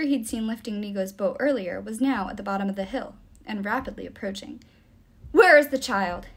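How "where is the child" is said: loud, higher creature's demand. A narrator's reading. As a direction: demand an answer forcefully. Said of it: "it demanded".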